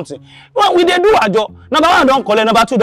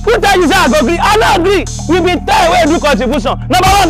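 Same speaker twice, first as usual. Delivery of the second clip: angry. Acted. Creditor confronts household over contribution.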